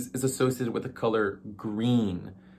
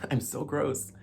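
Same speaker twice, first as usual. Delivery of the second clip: laughing; 4 semitones higher, 5 dB quieter, slower than usual. Real, not acted. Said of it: "I'm, like, burping a lot".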